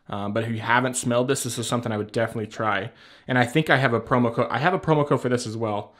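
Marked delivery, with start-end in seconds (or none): 3.3-5.9 heavy breathing between words. Real, not acted. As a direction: talk while a bit winded. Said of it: "Sorry, I'm breathing heavy".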